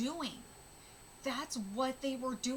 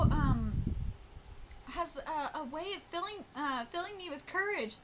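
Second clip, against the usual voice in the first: lightly voiced manga heroine, higher pitched; character voice read; 6 semitones higher, 8 dB louder, faster than usual. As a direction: read the panel as a hopeful young fighter. Reading manga dialogue in character.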